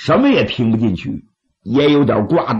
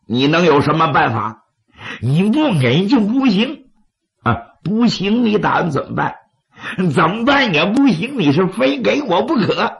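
scornful bandit chief; angry laugh; 5 semitones higher than usual. Acted. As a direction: laugh in anger, then argue back. Wang Dian laughs in anger, argues.

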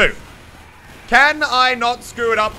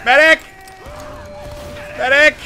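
loud desperate calls; shouting for help; 6 semitones higher, 6 dB louder than usual. Real, not acted. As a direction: yell across the battlefield. Calling for a healer mid-fight.

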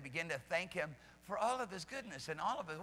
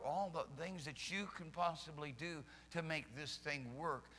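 quiet holy indignation; 3 semitones lower, 5 dB quieter than usual. Retold or imitated. A hint of the Spirit chiding believers, quiet indignation. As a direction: hold the indignation down to a low murmur. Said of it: "such holy indignation".

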